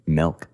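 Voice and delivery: "Milk" with an eh vowel; "melk" for milk. Retold or imitated. Trying the annoying pronunciation, "Milk" as "melk". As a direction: say "Milk" to rhyme with elk. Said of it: "it's got an E in it".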